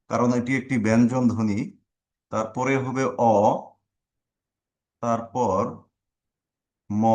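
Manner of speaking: তমাল split into single sounds, slow with pauses; sound-by-sound breakdown. Shown as a demonstration. Teacher breaking তমাল into sounds for students. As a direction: spell out each sound of তমাল deliberately. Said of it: "ধ্বনি বিশ্লেষণ করি তাহলে দেখা যাবে".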